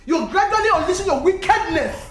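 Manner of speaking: angry accusation. Acted. Woman accusing the man over her husband's predicament, angrily.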